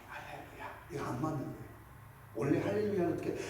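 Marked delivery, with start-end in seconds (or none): 0.1-0.9 soft, breathless whisper; a timid whispered praise; whispered hallelujah. Shown as a demonstration. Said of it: "이렇게 조용히".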